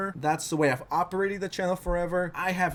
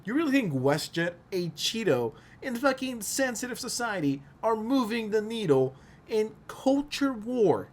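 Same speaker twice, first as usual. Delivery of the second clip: incredulous; 7 semitones higher than usual. Real, not acted. Incredulous rant at Reddit critics.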